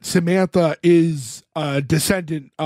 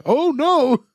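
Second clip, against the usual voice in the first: dismayed ghost; 10 semitones higher than usual. Pretend. Ghosts react to sage.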